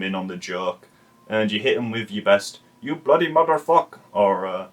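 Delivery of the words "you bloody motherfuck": higher-pitched mock Asian accent; put-on Asian accent, pitched up; imitated Asian accent. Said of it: "you've nailed the accent".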